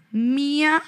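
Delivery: put-on understated scolding child; mild angry child. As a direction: play the upset three-year-old, half-serious. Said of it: "voz de Piero enojado".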